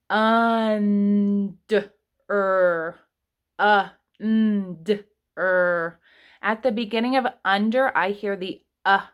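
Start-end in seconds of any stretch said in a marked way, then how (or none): 0.1-1.9 "Under" drawn out slowly, sound by sound; stretched-out word. Shown as a demonstration. Teacher stretching a word out for kindergarteners, drawn out. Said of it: "we have to kind of stretch it out together". 4.2-6.0 "und-er" split into two drawn-out parts; sounding out. Shown as a demonstration. Teacher sounding out under for the kids, slow and split. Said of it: "we have to kind of stretch it out together".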